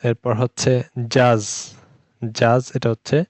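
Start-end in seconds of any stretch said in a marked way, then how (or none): 0.0-1.7 জাজ drawn out slowly with a voiced j; teacher sounding out জাজ slowly; slow demo word. Shown as a demonstration. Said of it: "জ sound".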